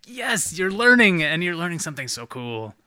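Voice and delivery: high, gushing praise; proud and delighted. Retold or imitated. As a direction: beam with pride at the kid. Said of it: "It's like".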